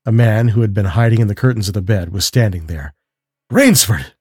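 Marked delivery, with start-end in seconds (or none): 3.5-4.1 startled cry, restrained in volume; a mild narrated scream of shock; screamed exclamation. A narrator's reading. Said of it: "screamed the general".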